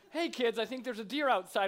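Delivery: lightly hammed-up surprise set-up for the children; imitating commercial husband. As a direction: call the kids over, mock-excited. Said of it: "not quite the same when I'm like".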